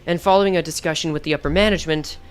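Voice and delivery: low, measured corporate voice; calm, cold and businesslike; cold company man. Acted. Reads the company man's lines.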